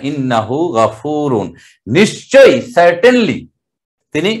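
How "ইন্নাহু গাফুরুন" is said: slow, careful ইন্নাহু গাফুরুন with the হু drawn out; slow recitation. Shown as a demonstration. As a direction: spell it out slowly for students. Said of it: "উল্টা পেশ দিয়ে একালিপটা". (ধীরে টেনে উচ্চারণ)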